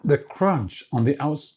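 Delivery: talking with a mouth full of cookie; muffled, speaking around a mouthful. Real, not acted. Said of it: "talking with my mouth full".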